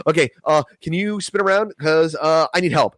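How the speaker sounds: high-pitched nervous plea; panicked plea. Retold or imitated. Asking his friend to turn around, high and panicked. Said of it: "I was like".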